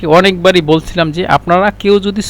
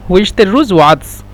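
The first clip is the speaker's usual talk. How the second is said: said quickly. Shown as a demonstration. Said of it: "তাড়াতাড়ি যদি বলেন".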